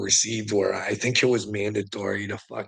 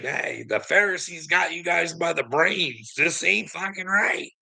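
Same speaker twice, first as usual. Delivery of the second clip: higher, slowing, a hammed-up street preacher; mock prophet calling out the lost; 7 semitones higher than usual. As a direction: shout it like a street preacher warning the crowd.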